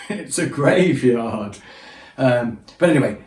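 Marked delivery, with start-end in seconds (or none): 0.1-1.6 deadpan disbelief. Retold or imitated. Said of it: "And I'm thinking".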